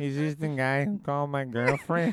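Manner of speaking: Mexican-accented English. Imitating the girlfriend's boyfriend calling back: put-on Mexican accent. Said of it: "I bet he'd sound more like".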